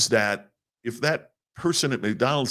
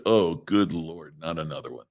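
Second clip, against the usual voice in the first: eye-rolling exasperation; 3 semitones lower than usual. Retold or imitated. Coach hearing student speak from the heart, eye-rolling exasperation. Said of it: "rolled his eyes and said".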